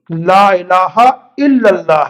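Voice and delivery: slow recital, الا said "illa" with doubled L; measured "la ilaha illa-llah"; kalma pronunciation. Shown as a demonstration. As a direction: spell out لا الہ الا اللہ slowly, leaning on "illa". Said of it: "اس میں الا ہے".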